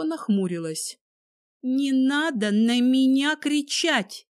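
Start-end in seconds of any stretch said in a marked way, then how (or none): 1.6-4.3 offended. A narrator's reading. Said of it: "обиженно произнесла она".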